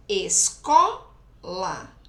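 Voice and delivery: "escola" loud and slow, CO rising and held; drawn-out demo of "escola", big middle CO; stress on CO. Shown as a demonstration. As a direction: punch CO in "escola", then a separate weak LA. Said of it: "Então, é o co aqui".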